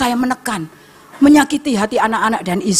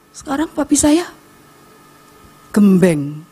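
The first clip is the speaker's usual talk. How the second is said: ordinary talk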